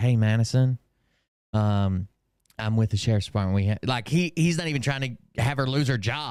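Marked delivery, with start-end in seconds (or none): 0.0-3.6 put-on whisper, lower pitch. Retelling how the cop greeted madison: imitating a cop's whisper. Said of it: "He's even whispering, like".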